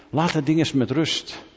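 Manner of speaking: high, exasperated order to put it down; exasperated scolding. Acted. Preacher scolding a phone-addicted listener, exasperated. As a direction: snap at yourself to leave the phone alone.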